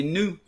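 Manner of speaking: "new" as "noo", without a Y glide; American new. Retold or imitated. Teacher recalling how the American president said it, "noo" for "new". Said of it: "Barack Obama, il faisait".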